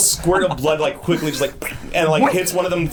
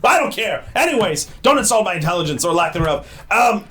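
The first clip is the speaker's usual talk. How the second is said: gruff gang boss telling off the applicants; unplaced mock accent for a goblin boss; goblin leader; 4 semitones higher than usual. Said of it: "I don't know what accent this is".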